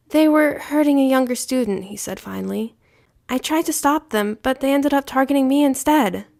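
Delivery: lightly voiced upset boy; a hint of a young boy pleading; child voice. Child figure voiced high.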